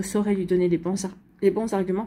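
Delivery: talking through hiccups; suppressing hiccups. Real, not acted. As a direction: hiccup catching mid-word. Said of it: "pardon, j'ai le hoquet".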